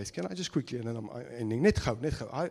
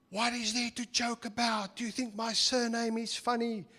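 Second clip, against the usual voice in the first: higher indignant teacher voice; offended teacher; 8 semitones higher than usual. Retold or imitated. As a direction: take offence at the pupil.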